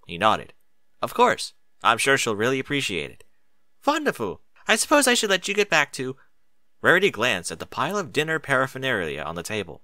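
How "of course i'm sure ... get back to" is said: much higher, lightly voiced pony; higher character voice. Spike and Rarity chatting at the door, higher voice. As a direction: lift the voice into a young character.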